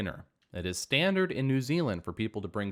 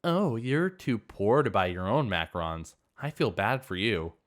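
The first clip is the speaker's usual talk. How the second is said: lightly voiced snooty sister, looking down; a touch of condescension, mocking pity. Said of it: "she said in a snooty voice".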